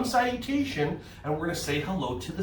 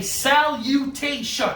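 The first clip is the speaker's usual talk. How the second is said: drawn-out modelling; 7 semitones higher, 3 dB louder, slower than usual. Shown as a demonstration. Models word for kids to repeat.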